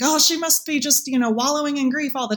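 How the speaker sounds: mock pity. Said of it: "people think".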